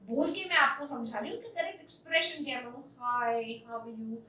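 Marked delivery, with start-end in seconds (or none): 3.0-4.1 slow, low listless greeting; bored, no energy; dull hi. Shown as a demonstration. Teacher showing a dull greeting, listless. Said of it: "this hi sounds so dull".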